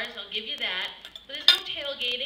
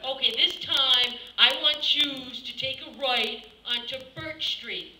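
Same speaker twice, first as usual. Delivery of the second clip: Italian GPS voice; slower than usual. Pretend. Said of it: "I'll do the Italian voice".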